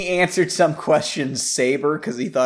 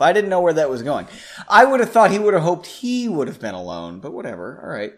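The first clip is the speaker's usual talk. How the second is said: ordinary delivery, nothing marked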